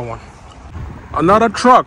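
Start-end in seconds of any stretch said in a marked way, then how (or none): 1.1-1.9 shouting over wind. Real, not acted. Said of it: "Sorry about the wind noise".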